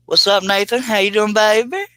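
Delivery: loud, high New York greeting; New York accent. Retold or imitated. Greeting viewer Nathan in a New York accent. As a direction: greet him like a Brooklyn guy, big and brassy. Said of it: "I went right into New York".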